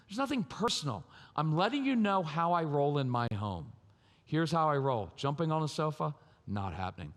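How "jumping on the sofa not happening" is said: short, authoritative. Shown as a demonstration. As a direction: state it briefly, closing the matter. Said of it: "I'm in control of myself and I've got authority".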